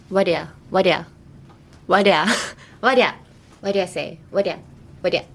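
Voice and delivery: "What do you" squeezed into one word, "whaddya"; reduced whaddya. Shown as a demonstration. Teacher drilling the learner on "What do you", said "whaddya". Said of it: "it's usually, like, two words".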